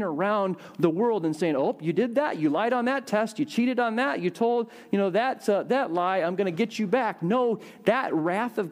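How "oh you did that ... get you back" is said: mock scolding. Mimics a vengeful God scolding.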